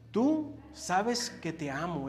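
slow, earnest declaration of love; sincere plea. Retold or imitated. Pedro answering Jesus, earnest and slow. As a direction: say it as Pedro pleading his love, slowly. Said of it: "Noten que decía Jesús cuando le contestaba".

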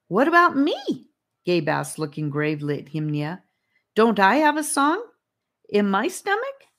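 high, loud eager question; eager child. Acted. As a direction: ask like an eager kid.

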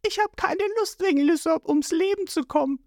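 high, irritated inner voice; annoyed Nami thinking. A narrator's reading. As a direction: grumble to yourself about the fool in the way.

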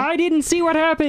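Kermit voice. Retold or imitated. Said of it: "Now, Kermit".

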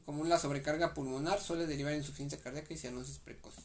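brisk, run-together repeat of the sentence; quick re-read. Real, not acted. Student re-reads notes to study partner, quickly. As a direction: rattle through it as a recap.

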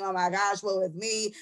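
ordinary talk, nothing marked

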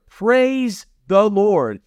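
drawn-out, weighty praise; slow preacher's praise. Acted. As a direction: stretch it out for the congregation. Preacher's exclamation.

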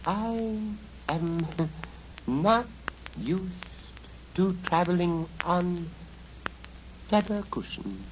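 put-on high girlish voice; haughty young girl; proud girl refusing. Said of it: "said the girl".

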